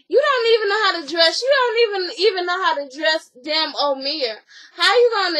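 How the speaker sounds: high and fast with attitude; mock scoffing. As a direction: scoff at his taste in clothes. Acted complaint about his taste.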